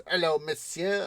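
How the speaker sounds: lightly put-on French maître d'; posh French accent. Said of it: "got a very posh French accent".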